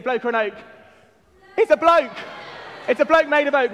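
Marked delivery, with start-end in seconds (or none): 1.6-3.7 game host's raised, emphatic reveal; excited reveal. Real, not acted. Host revealing the answer to the standing congregation, excited. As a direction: announce the answer higher and louder.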